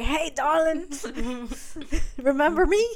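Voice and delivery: mock sweet-talking suitor. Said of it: "He's like".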